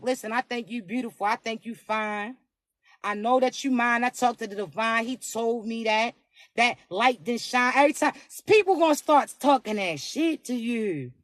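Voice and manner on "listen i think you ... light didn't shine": low, hushed sweet talk; tender confession. Acted. Voices a man confessing feelings.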